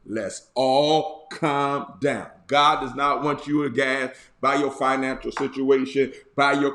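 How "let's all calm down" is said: slow, drawn-out and lower; slow calming line. Shown as a demonstration. Bishop demonstrates his calming catchphrase, slow and low. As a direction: ease it out like a lullaby. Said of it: "Say it with me".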